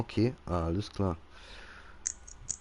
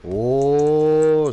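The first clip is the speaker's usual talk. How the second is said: excited; 5 semitones higher, 8 dB louder than usual. Real, not acted. Reaction to good play.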